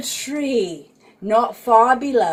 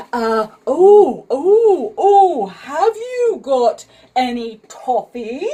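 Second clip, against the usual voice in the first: Moonface voice; 3 semitones higher, 6 dB louder than usual. Acted. Moonface voiced eagerly asking.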